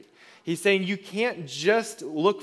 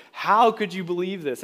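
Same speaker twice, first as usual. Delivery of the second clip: mildly fired-up quote, a bit higher; passionate disbelief; 3 semitones higher, 4 dB louder than usual. Retold or imitated. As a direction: retell it as an impassioned challenge. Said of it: "that's why he's so passionate".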